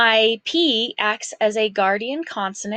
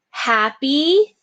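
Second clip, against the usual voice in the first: higher and louder opening call of the word; bold first call; 4 semitones higher, 4 dB louder than usual. Shown as a demonstration. Teacher calling out the dictation word loudly. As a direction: announce the word brightly to the class. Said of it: "dictation drill, word repeated".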